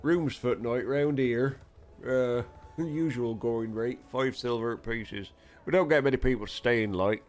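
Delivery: put-on Yorkshire accent. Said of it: "lose a bloody Yorkshire accent".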